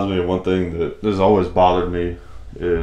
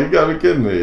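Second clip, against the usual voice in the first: much higher, incredulous; can't believe this is happening; exasperated disbelief; 10 semitones higher, 3 dB louder, much faster than usual. Retold or imitated. Exasperated at repeated question.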